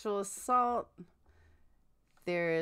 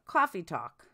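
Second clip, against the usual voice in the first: put-on Boston accent. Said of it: "Will you say coffee talk, Laura?".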